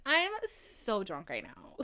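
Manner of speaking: slow, lightly imitated drunk voice; drunk announcement. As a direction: draw it out like a mild drunk. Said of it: "That's how you know I'm drunk".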